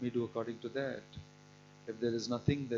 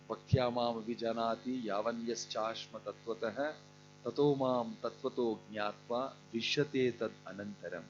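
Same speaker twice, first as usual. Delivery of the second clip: verse recitation. Acted.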